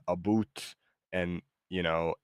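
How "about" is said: "aboot" with an oo vowel; Canadian "aboot". Shown as a demonstration. Host showing AI the Canadian stereotype, "aboot" with an oo. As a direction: say "aboot" with "boot" as its second syllable. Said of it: "impression of a Canadian that just says".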